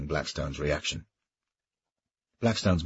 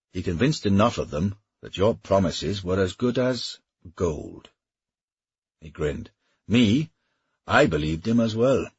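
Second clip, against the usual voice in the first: a lightly raised, mocking Welsh knight; Welsh mercenary voice; 3 semitones higher, 4 dB louder than usual. Welshman taunting his old comrade, lightly mocking voice. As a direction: goad him with easy bravado. Griffith speaks to Blackstone.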